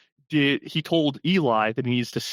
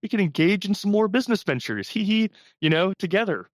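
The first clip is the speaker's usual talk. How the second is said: higher, giggly ingratiating voice with little laughs; sly Eli imitation; 6 semitones higher than usual. Mocking Eli as he pitches a deal to Daniel, giggly and fawning. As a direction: play the fake friend fishing for a business deal. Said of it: "He's like".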